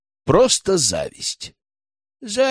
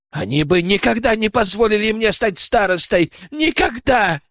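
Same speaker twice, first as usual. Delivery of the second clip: almost shouting; 9 semitones higher than usual. A narrator's reading. Tikhomir defending himself before the elders, near-shouting. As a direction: push it up toward a shout. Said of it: "Тихомир почти кричал".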